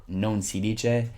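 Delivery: Italian pronunciation demo; slow Italian demo. Shown as a demonstration. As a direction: model non si dice slowly for learners.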